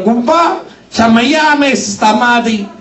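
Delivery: lilting Italian-American neighbor call; calling at the door. Retold or imitated. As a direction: call out to the neighbor, slow on the end.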